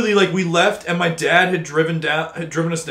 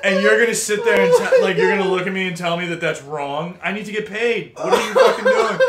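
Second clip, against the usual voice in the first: laughing rant. Real, not acted. Ranting while laughing.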